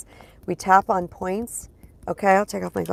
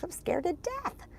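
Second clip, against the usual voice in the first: mock terror; 11 semitones higher, 9 dB quieter, slower than usual. Mock terrified about live talks.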